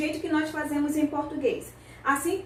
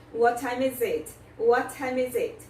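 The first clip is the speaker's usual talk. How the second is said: normal speed model. Shown as a demonstration. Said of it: "Também juntamos a pronúncia".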